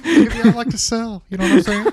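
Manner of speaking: talking through laughter, high and loud; laughing. Real, not acted. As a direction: squeeze the words out while cracking up. Cracking up over the lamb banter.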